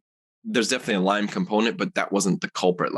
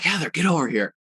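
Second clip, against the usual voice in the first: higher-pitched imitated call to wife; mock yell; 7 semitones higher than usual. Husband summoning his wife from the bathroom, mock yell. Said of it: "I yell at my wife".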